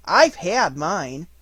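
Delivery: slow, pleased boast; proud. A narrator's reading. Roo boasting to Tigger about his medicine, proud. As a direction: show off that you were good. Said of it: "Roo said proudly".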